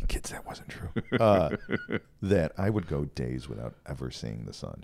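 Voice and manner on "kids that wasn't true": whispering. Real, not acted. Whispered aside to the kids.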